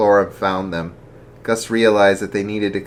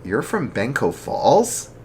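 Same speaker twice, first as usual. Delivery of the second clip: shocked; 4 semitones higher, slower than usual. Acted. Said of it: "in shock".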